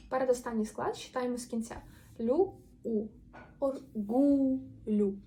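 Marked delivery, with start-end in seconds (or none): 3.6-5.2 "Оргулю" slowly, with drawn-out stressed GU; or-GUU-lyu, leaning on the middle syllable; наголос на передостанньому складі. Shown as a demonstration. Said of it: "Передостанній буде наголошений". («ор-ГУ-лю»: повільно, наголос на ГУ)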